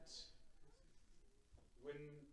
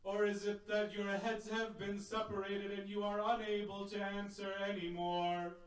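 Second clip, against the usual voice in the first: calling out to the fallen; 6 dB louder than usual. Retold or imitated. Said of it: "and he calls out".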